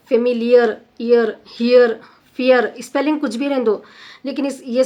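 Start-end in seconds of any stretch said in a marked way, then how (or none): 0.1-1.9 familiar, ear, hear, each stressed on the EAR glide; louder model words familiar, ear, hear; sound examples. Shown as a demonstration. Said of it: "sound like ear".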